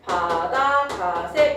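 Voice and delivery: slow, measured "바다 가세"; 암기용 구절. Shown as a demonstration. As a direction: spell out "바다 가세" as a memory phrase. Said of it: "이렇게 외우세요". ("바다 가세"를 천천히 또박또박)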